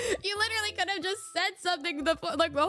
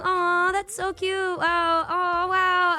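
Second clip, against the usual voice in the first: higher, louder mock cooing over a cute couple; cooing onlookers; 4 semitones higher, 4 dB louder than usual. Friends teasing the arguing couple, mock cooing. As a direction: coo it like teasing friends watching.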